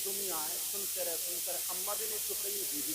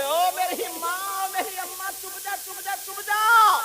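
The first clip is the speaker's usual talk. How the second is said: higher, hands-folded begging voice; mock pleading husband, hands joined; 11 semitones higher, 12 dB louder, slower than usual. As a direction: beg her to hush. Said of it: "کیا بولے".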